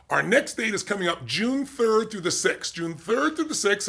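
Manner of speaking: slow, spelling out the dates; slow date announcement. Acted. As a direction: lay each date down slowly so they stick. Announcing event dates slowly.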